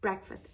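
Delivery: breakfast said "BREK-fəst" with a short second vowel; breakfast with a short weak ending; correct breakfast pronunciation. Shown as a demonstration. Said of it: "ای کوتاه انگار".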